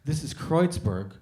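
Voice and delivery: slow deadpan put-down; slow, deliberate correction; slow, dry mock patience; dry comeback. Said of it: "I was just like".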